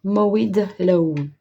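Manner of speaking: Mowed Lawn said with a plain, tentative English accent; a first, careful try at Mowed Lawn in English. Shown as a demonstration. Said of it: "très bel accent anglais". (premier essai de Mowed Lawn avec l'accent anglais)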